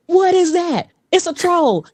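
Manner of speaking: high-pitched mock alarm; startled crowd. Imitating app users hearing her AI voice, high alarm.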